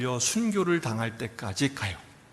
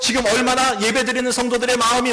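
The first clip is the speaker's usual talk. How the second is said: full-force preaching; 9 semitones higher, 8 dB louder than usual. Real, not acted. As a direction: proclaim it to the congregation. (힘차게 설교하듯)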